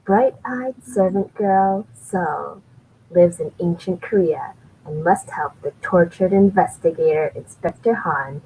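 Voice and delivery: lightly voiced trailer announcer; trailer guy voice. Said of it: "You gotta do the voice".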